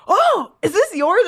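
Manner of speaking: high, slow, drawn-out 'oh' of mock innocence; feigned innocent surprise. Stranger handing back her umbrella, mock-innocent surprise.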